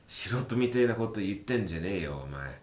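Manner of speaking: quick, scornful put-down; rough retort. Acted. Teacher voicing a tough guy telling someone off, quick and scornful. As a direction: snap it out fast like a tough guy. Same retort repeated faster.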